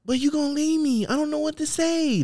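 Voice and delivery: high, silly put-on voice; Kermit. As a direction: pitch it way up like a puppet. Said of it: "with the Kermit voice".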